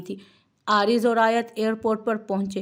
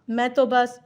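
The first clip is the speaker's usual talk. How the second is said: small whiny voice, higher; whiny murmur; 5 semitones higher, 5 dB louder than usual. A narrator's reading. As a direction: whimper it like a scolded wife. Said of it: "वो मिनमिनाई". (मिनमिनाती हुई आवाज़)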